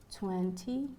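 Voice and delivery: rising tone on "twenty"; high rise. Shown as a demonstration. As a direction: step up in pitch on the end of "twenty". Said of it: "you have the high rise".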